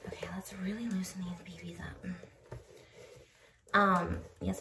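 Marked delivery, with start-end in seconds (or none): 0.1-2.6 whispering. Real, not acted. Whispered while lacing shoes.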